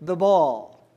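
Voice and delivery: DAN, THREW, THE BALL said very slowly, word by word; measured "Dan ... threw ... the ball" with pauses; simple statement, spelled out. Shown as a demonstration. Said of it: "If I have a simple statement".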